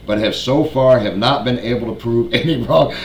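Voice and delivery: trying to hold a straight face; breaking into laughter mid-line; laughing while reading. Real, not acted. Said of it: "I tried to say that with a straight face".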